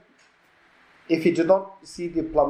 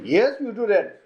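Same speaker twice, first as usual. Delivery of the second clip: higher-pitched mock insistence; insistent accusation; 4 semitones higher than usual. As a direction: act out pinning the blame on someone. Acted quarrel, accusation repeated.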